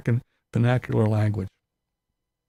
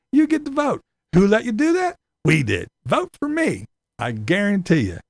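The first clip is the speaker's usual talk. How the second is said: mock politician pitch; 5 semitones higher than usual. Politician begging migrants for votes, hammed-up high pitch.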